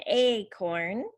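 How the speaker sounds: "acorn" with a drawn-out opening "ay"; long A. Shown as a demonstration. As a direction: slowly stretch the long A in "acorn". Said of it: "That's the long sound".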